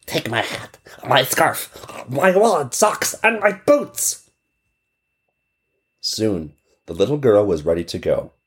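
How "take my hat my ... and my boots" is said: put-on generous child. Child voiced.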